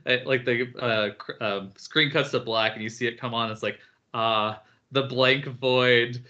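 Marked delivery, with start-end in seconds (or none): 4.1-6.2 slow, blissful little creature, rising higher; Luma. Retold or imitated. Little star creature greeting the blank void, falsely happy. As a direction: draw out the mock rapture, climbing to a high, loud cheer. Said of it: "you see the little Luma again".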